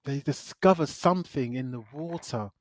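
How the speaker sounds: "something" set apart deliberately, held back by pauses; careful stress on "something". Real, not acted. Reviewer avoiding spoilers about the creature, careful stress on "something". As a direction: lean meaningfully on the word "something". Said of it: "I'm being very particular when I say something".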